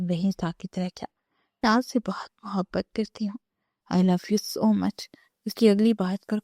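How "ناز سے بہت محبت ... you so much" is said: breathy whisper, then the English words drawn out very slowly; whispered confession. Acted. Wife confessing love to her husband, whispered.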